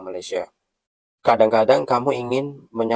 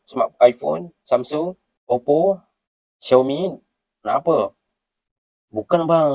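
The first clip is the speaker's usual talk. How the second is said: acted shop dialogue; 3 semitones higher than usual. Customer and shopkeeper dialogue acted.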